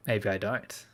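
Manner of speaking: drawn-out, laughing Australian tease. Real, not acted. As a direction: laugh it out slowly, teasing the chatter. Teasing a returning chatter.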